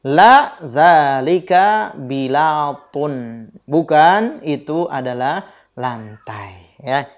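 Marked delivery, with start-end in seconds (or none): 0.1-3.1 la dzalika bilatun said very slowly with weight on la; teacher modelling a negative answer; slow model answer. Shown as a demonstration. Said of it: "Nah, dapur".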